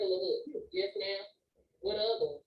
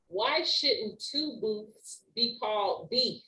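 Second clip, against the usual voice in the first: slow, measured poem recital; slow reading. Real, not acted. Teacher reads a wordplay poem to the class, slowly and deliberately. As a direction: read the verse slowly, phrase by phrase with pauses. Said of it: "read it a little slow".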